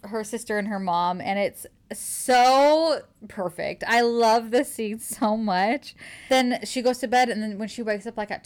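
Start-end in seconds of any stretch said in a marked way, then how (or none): 2.2-5.9 gushing. Real, not acted. Gushing over favorite scene.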